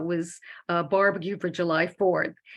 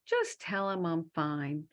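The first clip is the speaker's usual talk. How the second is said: hushed and slowed, a voice from a dream; soft ghostly message; 3 semitones lower, 6 dB quieter than usual. Retold or imitated. Dead friend in a dream, hushed and slow. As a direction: breathe it out gently and slowly.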